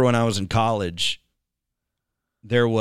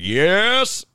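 high, loud drawn-out cheer; fired up; 10 semitones higher, 5 dB louder than usual. Acted. Imitating the fired-up South Campus crowd, fired up. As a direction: let the yes soar upward, loud. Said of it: "Where they just get like".

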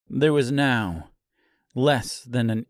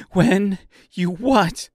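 slow, raised, louder demand; higher and louder, drawn-out question; insistent repeated question; 8 semitones higher, 5 dB louder, slower than usual. A narrator's reading. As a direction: press hard on each word of "When you what". Seamstress presses the unanswering girl.

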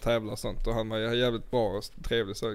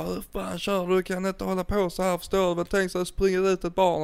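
mock scolding; 6 semitones higher than usual. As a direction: play the cop telling him off, half-hearted. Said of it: "hon börjar skrika och bara riktigt skälla ut mig". (halvhjärtat imiterad utskällning)

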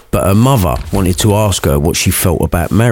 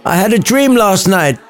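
Romeo voice; 10 semitones higher than usual. A narrator's reading.

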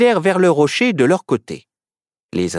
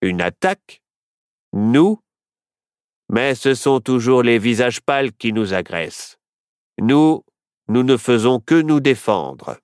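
surprised. A narrator's reading. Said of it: "complètement étonné".

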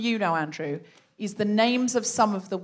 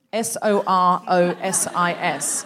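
slow, letter by letter; deliberate spelling for the listeners; spelled out slowly; 4 semitones lower, slower than usual. Shown as a demonstration. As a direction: spell each letter out carefully. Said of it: "the name Sorosis".

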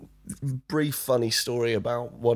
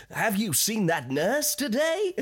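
much higher and slower, teasing; cheeky pirate; 11 semitones higher, slower than usual. Retold or imitated. Pirate teasing the children about the nurse, cheeky and slow. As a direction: lean in with a cheeky wink. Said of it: "make him a little bit kind of like".

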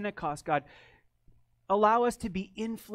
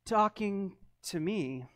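loud, higher retort; sharp comeback; 8 semitones higher, 11 dB louder than usual. Retold or imitated. Pastor retelling his loud retort to the neighbor. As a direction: throw it back at her. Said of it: "And I said".

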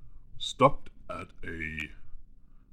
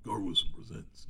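trailer guy voice; 3 dB quieter than usual. Shown as a demonstration. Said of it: "not Gar Wilson is".

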